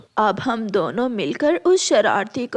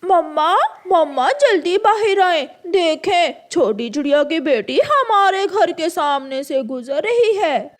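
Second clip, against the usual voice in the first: calling out; 4 semitones higher, 4 dB louder than usual. Acted. Crow child calls mother.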